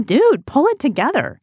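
mock impatient rebuke to a despairing prophet; judgy scolding. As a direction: tell him to pull it together, half mocking. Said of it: "judgy of Elijah, going".

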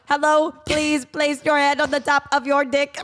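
lightly stiff mock robot, slowed down. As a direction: talk like a deadpan machine, slowly. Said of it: "my robot voice".

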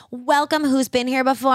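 imitated sass. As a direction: imitate a server greeting with attitude. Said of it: "She was delivering sass".

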